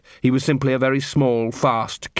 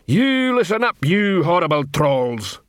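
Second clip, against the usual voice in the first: drill sergeant shout; 5 semitones higher than usual. A narrator's reading. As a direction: bark it at the recruits. Troll sergeant barking orders.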